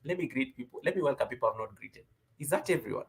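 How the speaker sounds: normal talking voice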